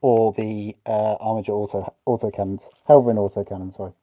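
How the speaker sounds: muffled through a face mask; behind welding mask. Real, not acted. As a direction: talk through a mask over your mouth. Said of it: "difficult to talk with this mask on".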